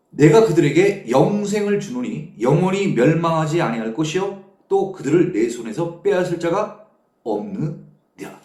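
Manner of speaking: measured, declaimed Bible verse reading; preacher reciting scripture. Real, not acted. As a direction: read the verse out firmly to a congregation.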